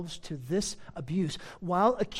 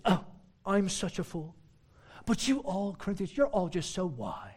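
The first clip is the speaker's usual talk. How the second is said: understated mock self-pity and flattery; sarcastic. Preacher as Paul calling himself a fool, sarcastic. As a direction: play humble with a sarcastic edge. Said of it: "You sense the sarcasm there?".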